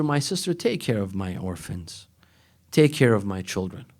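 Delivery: quiet pleading. Retold or imitated. Brother entrusting his children, hushed and soft. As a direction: murmur the dying request gently. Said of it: "would tell his sister".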